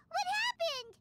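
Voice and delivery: sudden alarm, voice jumping up; startled, demanding to know; alarmed question. Acted. Paimon to Nahida as the seed breaks, alarmed.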